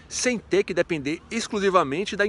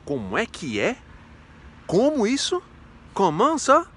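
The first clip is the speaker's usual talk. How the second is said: mock indignant questions, climbing higher and louder; indignant partner; 4 semitones higher, 3 dB louder than usual. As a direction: challenge them like an affronted girlfriend, building in pitch. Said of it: "ela olha pra você e diz". (namorada indignada cobrando explicação, cada vez mais agudo)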